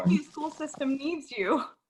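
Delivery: tongue in cheek. Giving a positive reply to a pretend heckler in an exercise: sarcastic. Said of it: "I can tell you're being sarcastic".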